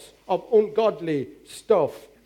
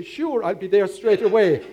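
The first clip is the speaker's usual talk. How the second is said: laughing. Pretend. Jokingly imagines accepting the call.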